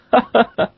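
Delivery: high fake laugh at own joke; forced laugh. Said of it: "on rit à sa propre blague".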